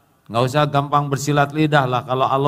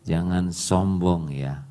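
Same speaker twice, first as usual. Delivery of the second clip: slow, lightly voiced warning cat; ominous cat; 3 semitones lower, slower than usual. Preacher voicing the cat warning the lion, slow and ominous. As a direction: drag it out like a cat with a dark secret. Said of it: "Apa kata kucing?".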